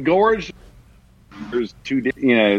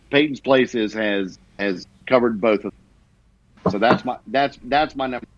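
corrupted glitchy audio; 2 semitones lower than usual. Real, not acted. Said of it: "Your audio is cutting out really bad".

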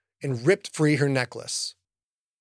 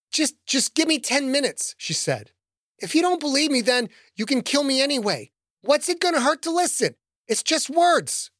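pleading woman; 9 semitones higher than usual. Acted. Woman bargains for her life.

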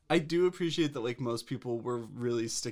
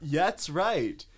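lightly hammed-up, lilting sales voice; a touch of infomercial host; mock ad announcer; 4 semitones higher than usual. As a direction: pitch it like a parody commercial. Mock ad pitch continues.

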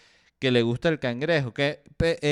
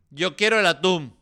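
higher and louder, stamping the word quiero; mock insistent demand; 5 semitones higher, 5 dB louder than usual. The selfish tuna lover repeats his demand, louder and insistent. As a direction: insist like a spoiled kid. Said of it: "Va a haber gente que".

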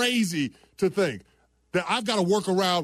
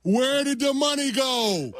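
shouting; 3 semitones higher than usual. Real, not acted. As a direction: yell the question at them. Demanding where money went.

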